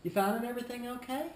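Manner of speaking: high, quick smiling check-in. Shown as a demonstration. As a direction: ask with a smile, rising at the end. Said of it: "With a smile".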